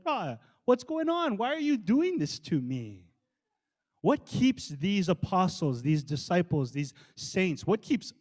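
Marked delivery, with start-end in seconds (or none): 0.0-3.1 mock outraged protest. Preacher imagining Saul challenging God, indignant protest. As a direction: act out shaking a fist at God. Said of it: "shake his fist at God and be like".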